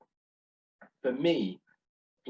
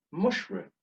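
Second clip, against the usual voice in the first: higher-pitched, carefully said "mushroom"; retold order; 8 semitones higher than usual. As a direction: place the order in a raised voice. Ordering in his accent, misheard.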